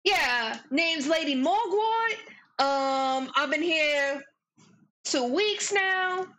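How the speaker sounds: put-on Boston accent. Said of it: "Great Boston accent".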